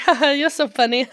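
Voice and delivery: high, put-on giggle into the words; giggly imitation. Couple laughing together on the couch, giggly imitation. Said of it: "a couple giggles and you're like".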